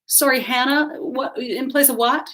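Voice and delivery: put-on LA-accented socialite, querying; Anglo Los Angeles accent. Hostess mishears a guest's name, Anglo LA accent. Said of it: "in her Anglo Los Angeles accent".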